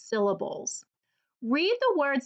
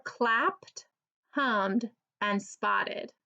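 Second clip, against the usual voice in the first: slow listing; much slower than usual. Shown as a demonstration. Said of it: "Can you find the words clapped".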